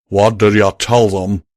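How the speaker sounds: loud stern demand; stern, with tell leaned on. Acted. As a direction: press him hard, stress tell. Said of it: "Calamity said sternly".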